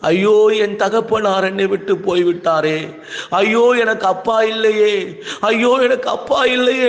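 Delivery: high, crying-out lament, reenacted; retold wailing. Preacher reliving the night he mourned his father, wailing high. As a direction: cry out for a lost father as he once did. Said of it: "நான் கண்ணீர் விட்டு சத்தம் போட்டு அழுதேன்".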